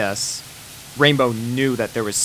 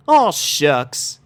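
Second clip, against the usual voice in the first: modest Southern; 4 semitones higher, 4 dB louder than usual. Acted. Applejack modest.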